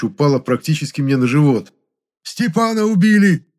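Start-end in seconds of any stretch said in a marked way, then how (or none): 2.2-3.5 much higher, whining in shock; shocked whimper. A narrator's reading. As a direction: squeal it out in horror. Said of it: "потрясённо заскулил толстяк".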